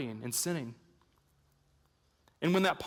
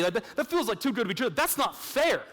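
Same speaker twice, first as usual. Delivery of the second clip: skeptical listener objecting; 5 semitones higher than usual. Pretend. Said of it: "And you might say".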